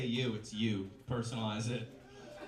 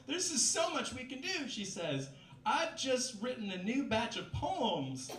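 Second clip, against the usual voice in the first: roommate's voice; 10 semitones higher than usual. Acted.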